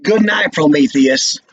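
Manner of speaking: dry mock farewell; sarcastic. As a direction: sneer the name Prometheus. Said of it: "And to Walter sarcastically".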